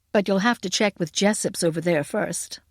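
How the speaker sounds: lightly voiced American man; American accent. A narrator's reading. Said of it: "but the American accent".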